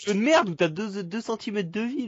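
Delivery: raging gamer. Real, not acted. Raging at game health.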